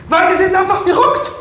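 losing patience, shouting her down; exasperated shout. Acted. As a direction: blurt the insult out loud. Insulting the possessed woman.

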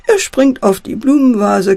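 plain reading voice

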